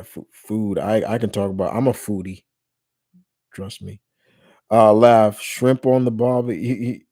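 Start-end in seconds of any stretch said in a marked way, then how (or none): 4.9-6.6 loud mock-Australian accent; joking Australian accent. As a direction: put on a jokey Australian accent for a laugh. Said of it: "just trying to get a laugh".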